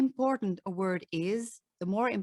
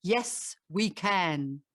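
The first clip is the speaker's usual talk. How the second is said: 1 light Obama impression; 3 semitones lower, much slower than usual. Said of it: "Obama sounds like".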